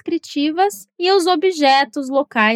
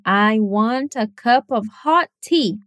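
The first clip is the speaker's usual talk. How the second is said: "hot" stressed along with "want", "cup" and "tea"; slow take that leans on "hot" and "tea"; 3 semitones lower, slower than usual. Shown as a demonstration. Teacher showing that the describing word gets stress too. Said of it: "O hot, quente, também seria importante".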